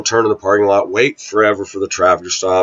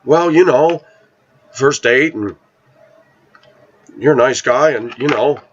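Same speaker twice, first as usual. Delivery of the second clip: higher, coy voicing of the date; voicing her date; 5 semitones higher than usual. Quoting his date's shy first-date answer, higher coy voice. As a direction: play her shy hesitance, pitched up.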